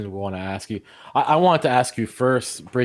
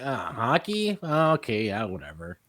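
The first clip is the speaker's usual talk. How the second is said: dismissive attitude; 2 semitones lower, 4 dB quieter, slower than usual. Retold or imitated. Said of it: "I get the attitude".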